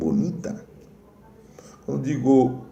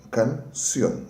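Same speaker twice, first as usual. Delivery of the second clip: "Canción" in two parts, can and ción; syllable-by-syllable demo; 2 semitones higher than usual. Shown as a demonstration. Teacher repeating the example for students, "Canción" split to show its last syllable. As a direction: repeat "Canción" with a gap before the final ción. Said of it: "também a sílaba tá na".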